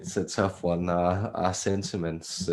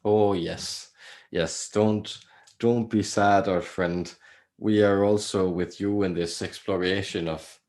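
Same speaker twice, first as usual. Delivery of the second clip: put-on channelled Irish-ish accent. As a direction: speak as a gentle entity in a not-quite-Irish accent. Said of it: "Irish accent, which isn't Irish".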